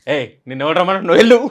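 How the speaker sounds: angry shout. Retold or imitated. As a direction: shoo him off set angrily. Director yells him off set.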